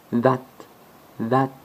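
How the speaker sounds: that with the tongue between the teeth; English th. Shown as a demonstration. Teacher comparing with English, demo. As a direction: say that like an English speaker. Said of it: "en anglais".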